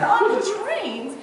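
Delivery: high, slow, loud disbelief; shocked question. Retold or imitated. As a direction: gasp it out in disbelief. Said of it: "And I said".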